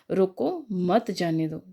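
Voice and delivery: रोको, then a short break before मत जाने दो; pause after रोको. Shown as a demonstration. Teacher reading a comma example to students, pause after रोको. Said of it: "ये जो कोमा है, ये रोको के बाद लगा है".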